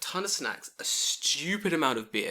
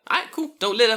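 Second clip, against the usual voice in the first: retold policeman's send-off; 9 semitones higher, 8 dB louder than usual. Acting the policeman letting them off.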